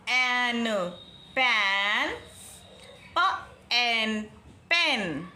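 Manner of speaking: drawn out पैन then पेन; पैन open ae, पेन short e; slow phonics contrast. Shown as a demonstration. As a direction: sound out both words slowly. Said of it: "किस तरह से हमने pronounce किया".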